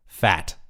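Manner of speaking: "Fat" punched out with a crisp final T; hard-hit "Fat". Real, not acted. Host reads out a surname with two T's, "Fat" hit hard. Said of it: "God, hit that one".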